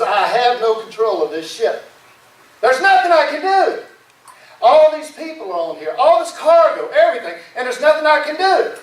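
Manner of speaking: helpless captain, voice rising high; mounting alarm with little added volume; mild panic. Acted. Captain realizing he has lost the ship, mild panic. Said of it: "He starts to panic".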